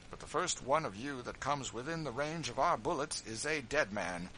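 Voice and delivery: defiant George. A narrator's reading. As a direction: stand proud, free man. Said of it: "said George".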